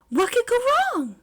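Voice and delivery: high, loud ominous irony; ironic sting. A narrator's reading. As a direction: foreshadow trouble with a wink.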